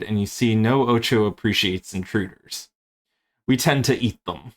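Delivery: put-on spider character in a light Australian accent; lightly voiced Australian spider gang member; Australian reading. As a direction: read it like a cheeky Aussie spider, threatening. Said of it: "very Australian reading if I read this".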